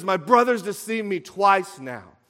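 acted angry yell. Esau raging over his brother's deceit, angry yell. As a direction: cry out the grievance, short of a full scream. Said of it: "He screams".

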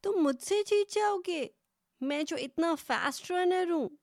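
high, sneering disbelief; mocking hare. A narrator's reading. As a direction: scoff at the very idea. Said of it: "کہنے لگا".

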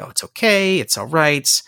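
hammed-up comforting of a crying friend; sarcastically playing the comforter; mock consoling.

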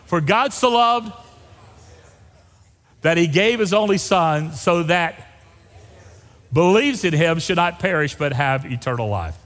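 measured lead with gaps to fill; slow group reading. Shown as a demonstration. Pastor has the congregation retry the verse with their own names, slowly. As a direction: read slowly, leaving room for each name. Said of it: "You Aggies will read it slow".

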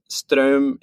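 Ström said the native Norwegian way; Ström with its native Norwegian vowel; correct Norwegian pronunciation. Real, not acted. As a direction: say Ström as a Norwegian speaker would. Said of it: "he pronounces it correctly".

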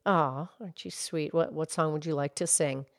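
put-on low, soft old lady voice; gentle granny puppet character; Mildred voice. Mildred answers Pinky.

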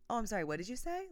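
mock polite. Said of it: "he's like".

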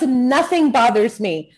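slow, easygoing grandmother; a hint of a sweet old lady reassuring; grandma comforting the young mom, lightly voiced; lightly voiced cheerful grandma. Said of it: "She goes".

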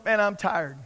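mock-tired people, low and sighing; weary moaning. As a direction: drone it wearily, imitating a chronic complainer. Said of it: "people sometimes that are, that are tired".

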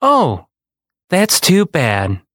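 high sighing oh, then slow sympathy; lightly voiced mother consoling gently; mother's pity. A narrator's reading. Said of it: "my mother said".

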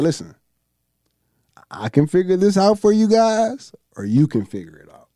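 put-on older referee. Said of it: "he said".

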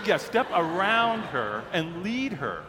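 slow, deliberate imitated instruction; unfazed staffer spelling it out slowly; matter-of-fact insistence. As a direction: repeat it patiently, word by word. Staffer calmly repeats the instruction.

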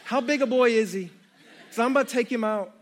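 mock-jealous Joey, laughing. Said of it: "he's probably like".

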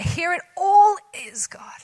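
slow hushed whisper to God; whispered surrender to God; whispered prayer. Real, not acted. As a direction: breathe it out as an offering.

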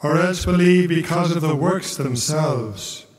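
measured, solemn reading of scripture; gospel proclamation. Acted.

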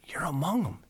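proud declaration. Retold or imitated. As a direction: tell him with swelling pride. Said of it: "And I go".

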